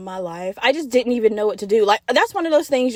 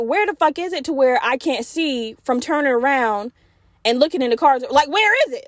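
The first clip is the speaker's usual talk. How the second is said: irritated, frustrated; 3 semitones higher than usual. Retold or imitated. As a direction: act out growing frustration while searching. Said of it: "I'm getting irritated".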